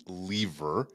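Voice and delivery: "lever" pronounced LEE-ver; long-e lever. Real, not acted. Host introducing a co-host, says "lever" as LEE-ver. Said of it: "Is it lever or lever".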